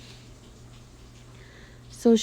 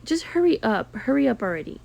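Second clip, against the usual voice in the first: mock impatient client; 3 semitones higher, faster than usual. Client rushing the nail tech, impatient mock snap. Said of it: "she's like".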